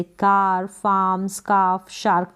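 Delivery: "कार, फार्म, स्कार्फ, शार्क" with a long aa; AR sound. Shown as a demonstration. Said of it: "आ या फिर आर pronounce".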